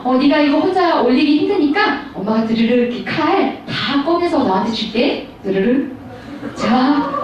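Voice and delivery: lightly acted indulgent mum, slowing down; doting mother. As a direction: offer it sweetly as to a small child. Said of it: "그러면서".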